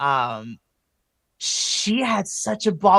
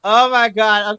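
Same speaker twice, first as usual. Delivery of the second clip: excited exclaim; 5 semitones higher, 10 dB louder than usual. Real, not acted. Excitement about the match.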